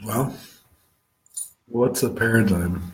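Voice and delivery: strained voice giving out; struggling voice giving out. Real, not acted. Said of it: "Sorry about my voice".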